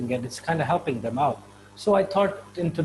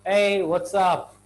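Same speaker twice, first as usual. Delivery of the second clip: slow, louder Hey, what's up; friendly greeting; 3 semitones higher, 5 dB louder, much slower than usual. Shown as a demonstration. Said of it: "you simply say".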